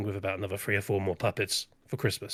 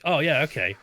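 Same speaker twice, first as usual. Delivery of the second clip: without moving lips; 2 semitones higher than usual. Shown as a demonstration. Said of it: "where she talks like this".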